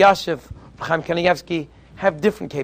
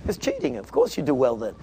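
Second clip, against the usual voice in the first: mock outrage; 4 semitones lower, 3 dB quieter than usual. Mock outrage at the rabbi's diligence.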